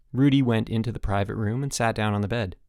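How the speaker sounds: usual speaking voice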